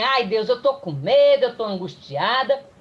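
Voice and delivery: mock anguished outburst, loud at the start; acted-out fretful complaint; anguished patient. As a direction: imitate a distressed patient venting fear and frustration. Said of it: "minha paciente virou pra mim e falou assim".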